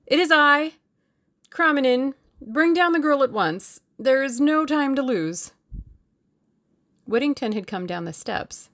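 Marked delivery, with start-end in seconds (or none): 0.0-5.5 raised, loud call, understated fear; high and loud Russian under duress; unsteady, frightened urgency. A narrator's reading. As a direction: call out urgently, nerves showing. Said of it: "his voice was not very steady".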